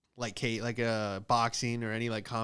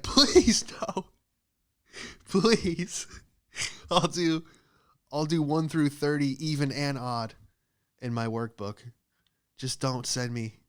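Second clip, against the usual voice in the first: mock pleading; 3 semitones higher, 3 dB louder, slower than usual. Begging not to be sent to war.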